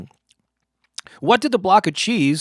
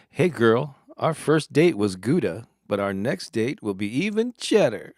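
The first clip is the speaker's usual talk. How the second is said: smooth, slightly lowered pickup voice; lightly voiced cheesy lounge lizard; smooth-talking mock seduction, played lightly; 3 semitones lower than usual. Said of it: "pretty smooth lounge lizard voice there".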